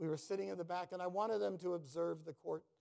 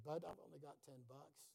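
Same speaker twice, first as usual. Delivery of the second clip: hushed, much softer aside to a friend; whispered aside; 10 dB quieter than usual. Retold or imitated. Man in court whispering to his friend about his money. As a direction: whisper it so the court can't hear. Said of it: "And I whispered".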